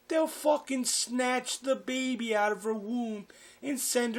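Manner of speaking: acted ranting father, high and forceful; drunken yelling. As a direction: yell it insistently, dragging out key words. Drunk father yelling about aliens.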